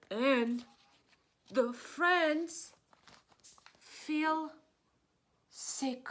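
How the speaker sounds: dramatic turn. A narrator's reading. Friends fall sick.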